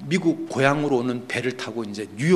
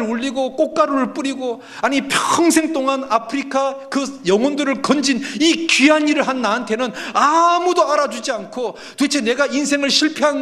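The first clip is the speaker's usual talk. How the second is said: high-pitched, loud, wailing protest to God, acted out; tearful outcry; 11 semitones higher, 5 dB louder than usual. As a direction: cry out in an aggrieved, rising plea, imitating the missionary. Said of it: "들어가서 엉엉 울었습니다".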